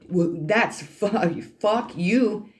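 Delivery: slow down and spit the "fuck you" up high; defiant fuck you. Retold or imitated. Defiant reply to authorities.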